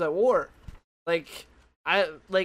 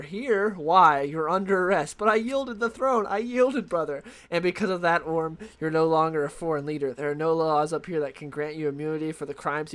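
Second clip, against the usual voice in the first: reading comic dialogue. Retold or imitated. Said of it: "this is what he says".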